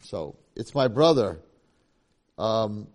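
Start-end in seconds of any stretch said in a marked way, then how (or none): 0.6-1.4 tearful. Acted. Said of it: "With tears ripping down his face".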